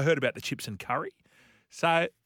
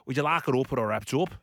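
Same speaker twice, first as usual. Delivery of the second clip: imitated thick Liverpool accent; strong Scouse accent. Takeaway lady asking a customer, imitated in thick Scouse. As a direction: mimic a broad Scouse takeaway server. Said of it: "in the strongest Scouse accent I've ever heard".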